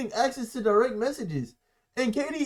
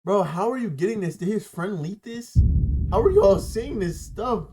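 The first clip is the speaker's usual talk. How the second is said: words slurred around a retainer; talking with a retainer in. Real, not acted. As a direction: speak around a dental retainer. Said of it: "Let me take out my retainer".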